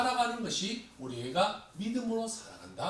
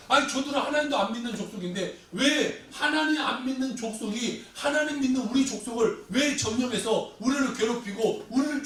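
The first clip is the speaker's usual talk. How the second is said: protesting to God; 3 semitones higher than usual. Acted. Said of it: "하박국은 또 질문이 생겼어요".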